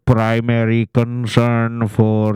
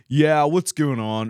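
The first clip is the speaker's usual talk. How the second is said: laid-back American greeting; 5 semitones higher than usual. Retold or imitated. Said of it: "they either become like".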